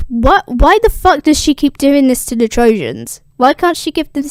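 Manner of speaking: loud, exasperated tirade; pissed-off rant. Retold or imitated. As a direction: rant like a furious goddess. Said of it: "super pissed".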